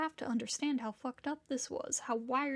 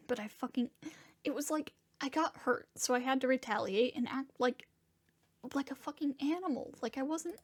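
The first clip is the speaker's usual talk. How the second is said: halting, upset, close to a sob; voice cracking. Acted. Confessing he acted like an animal, voice near cracking. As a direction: let the words stumble as tears threaten. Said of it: "my voice cracks on a sob".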